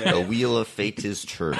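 shouted fighting game announcer call. Retold or imitated. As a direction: belt it out like an arcade announcer. Quoting the BlazBlue announcer.

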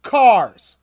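imitating the boy. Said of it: "kid answering in retold scene".

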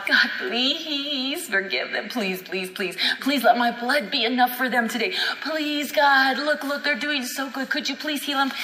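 slow, mock pleading to God; begging prayer. Christ on his knees begging the Father, mock pleading. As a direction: plead it like a desperate beggar. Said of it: "sitting there on his knees begging God".

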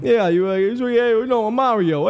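high hammed-up Italian accent, Mario style; Italian plumber voice. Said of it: "Vinny the plumber".

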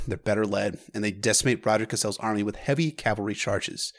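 plain reading voice

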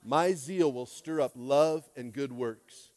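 slow and deliberate, word by word; a measured congregational recital; slow recitation. Shown as a demonstration. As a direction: recite it slowly for the room to echo. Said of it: "Let's say that together".

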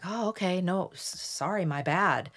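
softly voiced, giving in with a stumble; apologetic backing down. Target blown away by emphatic claims, meekly apologetic. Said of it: "you'll be like".

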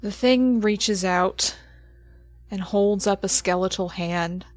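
game master scene setting. Acted. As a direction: hand down the creature's judgement gravely. GM narrates the creature's judgement.

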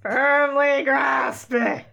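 loud, slow repeat. Real, not acted. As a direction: call it out slowly.

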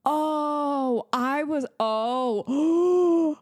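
gasping realization, high and loud; sudden shocked oh. Real, not acted.

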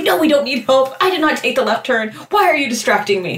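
mock annoyed protest; lightly acted irritation, snapping at a partner; pissed off. Alien driver to partner after the crash, mock pissed off. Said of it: "so pissed, like".

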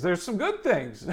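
soft chuckle through the words; laughing. Real, not acted. Preacher chuckling to his congregation, laughing softly. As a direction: laugh it out quietly. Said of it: "repeats the line differently".

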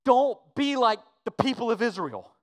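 starts slow and tender, then swells into a loud plea; pastoral pleading building to loud. Retold or imitated. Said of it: "like he is pastorally pleading".

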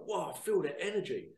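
retold wow of excitement; imitating thrilled viewers. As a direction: voice an awed fan's reaction. Voicing thrilled viewers' comments.

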